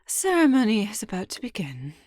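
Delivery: loud, brisk call to the ladies, fast; commanding call. Acted. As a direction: summon everyone into place. Announcing to ladies before ceremony.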